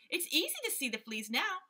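little monkeys. A narrator's reading. Monkeys reassuring the gorilla in high squeaky voices. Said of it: "said the six little monkeys".

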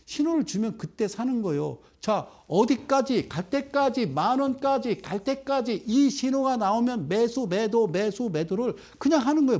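ordinary talk

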